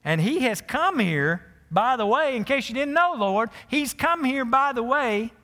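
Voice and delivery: high, loud, alarmed pleading to God; panicked protest. Retold or imitated. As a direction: protest as if God can't be serious. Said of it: "can you hear him saying this?".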